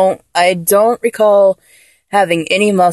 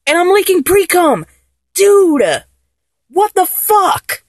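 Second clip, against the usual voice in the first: much higher, voice cracking up in shock; 13 semitones higher than usual. Acted. Discovering the new body, a high shocked squeal. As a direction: squeak it out in total disbelief.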